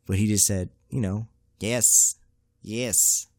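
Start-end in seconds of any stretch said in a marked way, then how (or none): 1.6-3.3 lightly put-on Asian accent; a hint of mock Asian accent. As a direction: imitate a short reply in an Asian accent. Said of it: "I shouldn't be doing Asian accents".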